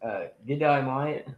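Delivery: put-on Australian accent. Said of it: "Do it again, Landon".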